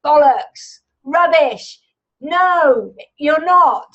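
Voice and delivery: a hint of a jeering inner gremlin; gremlin shouting back. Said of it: "the louder the gremlin shouts".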